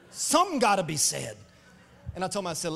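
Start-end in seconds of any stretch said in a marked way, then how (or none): 0.1-1.3 loud, emphatic barber quote; insistent barber. Retold or imitated. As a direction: voice the barber putting his foot down. Acting out indignant barber's quote.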